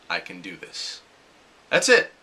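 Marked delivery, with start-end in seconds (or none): 0.1-1.0 softly spoken to oneself; quiet self-talk. Shown as a demonstration. Calming yourself before a scary step, soft and quiet. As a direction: murmur the words to steady yourself. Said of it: "just say to yourself".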